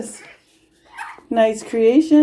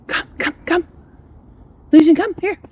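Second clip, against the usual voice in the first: calling a dog; 8 semitones higher, 5 dB louder than usual. Real, not acted.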